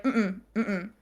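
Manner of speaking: soft closed-mouth "mm-mm"; nonverbal disapproval. Retold or imitated. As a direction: imitate a coach's quiet, wordless no. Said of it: "like, nonverbal".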